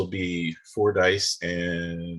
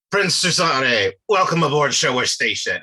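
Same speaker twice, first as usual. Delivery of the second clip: higher, louder ceremonial welcome; formal commodore greeting; 5 semitones higher, 6 dB louder than usual. Acted. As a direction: receive a visiting prince with official poise. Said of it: "she'll say".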